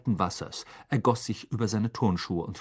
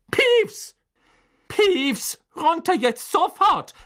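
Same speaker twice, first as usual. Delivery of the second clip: high, loud furious barking; barked order; 6 dB louder, much slower than usual. Acted. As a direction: bark him down from the ceiling. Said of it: "bellte Professor McGonagall". (laut und hoch gebellt)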